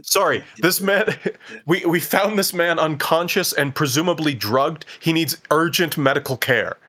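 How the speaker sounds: lightly acted alarm for the lobby; urgent plea. Group reporting a drugged man in the lobby, urgent plea. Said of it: "we say".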